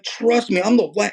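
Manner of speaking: high-pitched, urgent assurance; excited insistence. Retold or imitated. Man urging a distressed woman to trust him, excited. Acting out his excited witnessing.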